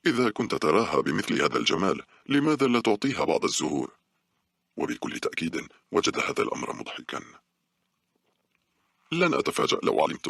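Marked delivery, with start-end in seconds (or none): 0.1-3.9 mild sarcasm, rising high at the end; a light mocking jab; sarcastic. Girl teasing the scientist, mildly sarcastic. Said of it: "قلت له بسخرية".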